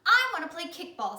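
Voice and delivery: high, loud whine; high whiny child voice; whiny Ron. Acted. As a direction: whine it like a little kid. Ron asking Louis.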